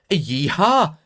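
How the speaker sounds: high, hollered mock-Texan yeehaw; cowboy yeehaw. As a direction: whoop it like a cowboy. Reading a Texan fan's message.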